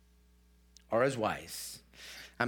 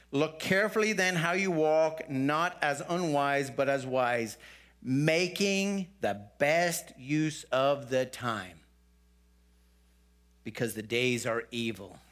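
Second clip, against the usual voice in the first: scripture reading; 3 semitones lower than usual. Acted. Rereads verses fifteen and sixteen.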